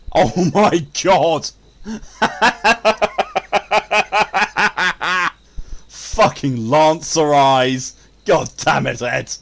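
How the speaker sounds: loud, laughing exclamation; cursing through laughter, high and drawn out; helpless laughing outburst. Real, not acted. Streamer cracking up over the game, loud laughing swearing.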